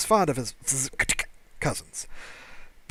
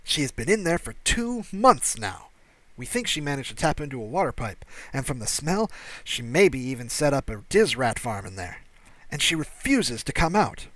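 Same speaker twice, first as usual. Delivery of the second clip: alien security officer; 4 dB louder than usual. Acted. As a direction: play the nervous station officer, voice pitched up. Officer voiced by the narrator.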